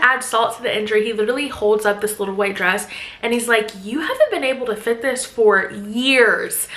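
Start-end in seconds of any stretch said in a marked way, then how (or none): 3.8-6.7 years leaned on, slow and pointed; slow dig with weight on years; stress on years. Retold or imitated. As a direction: land hard on years to sting. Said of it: "he put emphasis on the years".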